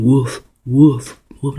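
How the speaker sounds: mild imitation of a dog; a lightly voiced dog's woof, a touch low. Saying the word like a dog, mild mock woofing. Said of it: "like a dog".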